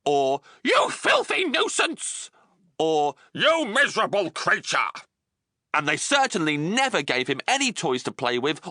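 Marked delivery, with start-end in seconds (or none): 0.6-2.3 high, slow sneering aunt voice; nasty aunt. A narrator's reading. Cruel aunt insulting young James. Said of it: "always referred to him as". 3.3-4.9 higher sneering aunt voice; a spiteful jab in a put-on voice; nasty aunt. A narrator's reading. Cruel aunt scorning the orphan James. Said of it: "always referred to him as".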